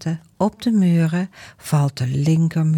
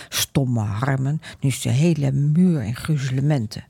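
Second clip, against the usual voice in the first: grumbling; 2 semitones lower than usual. Acted. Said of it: "Ondertussen zit hij te mopperen".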